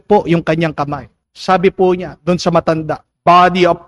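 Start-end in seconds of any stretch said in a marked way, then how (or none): 3.2-3.8 grudging forceful. Retold or imitated. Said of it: "talagang mabigat na bigat".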